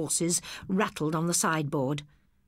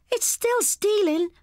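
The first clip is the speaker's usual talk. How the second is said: high, loud, slow reproach; scolding sister; 5 dB louder, slower than usual. Acted. Sister tells brother off for stealing, high firm reproach. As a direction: press the point firmly.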